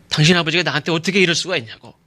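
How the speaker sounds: imitating someone demanding an explanation; confrontational. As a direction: confront a trusted friend about their father, fast and forceful. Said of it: "막 이렇게 따지듯이 말을 할 수 있지".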